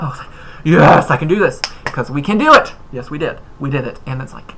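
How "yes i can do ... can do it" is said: pumped up. Retold or imitated. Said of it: "I was getting pumped up".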